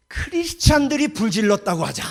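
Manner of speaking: loud scheming proclamation; plotting emperor. Retold or imitated. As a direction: announce the scheme like a tyrant. Nero's plot voiced in sermon.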